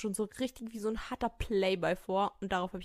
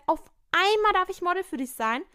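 sarcastic; 8 semitones higher, 4 dB louder than usual. Acted. Repeats sarcastic line.

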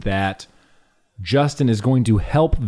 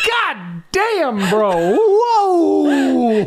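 mock amazement; much slower than usual.

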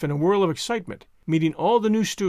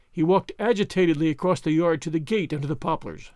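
usual speaking voice

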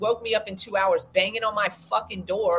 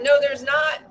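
high, loud shouted denial; indignant shout, pitched high; shouted retort; 6 semitones higher, 5 dB louder than usual. Retold or imitated. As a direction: yell it back at the manager. Retold retort to hotel manager.

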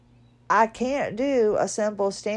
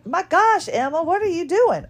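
startled exclamation; 8 semitones higher, 4 dB louder than usual. Retold or imitated. Startled by snoring in clinic.

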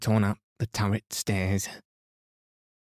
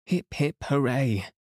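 higher-pitched hurrah; high squeaky cheer; 5 semitones higher than usual. A narrator's reading. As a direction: cheer it high, without much volume. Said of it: "three cheers were rather high and squeaky".

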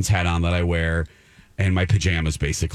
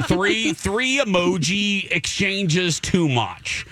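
drawn out; 9 semitones higher, slower than usual. Retold or imitated. Mocking emphasis, laughing.

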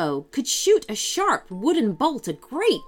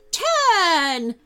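higher, loud single command; shouting; 9 semitones higher, 5 dB louder than usual. Acted. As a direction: yell it down at them. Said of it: "it shouted at the Wendigaggles".

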